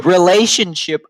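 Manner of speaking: goes very high and falsetto at the end; hammed-up creepy flirting; mock suave king invitation; smarmy king voice.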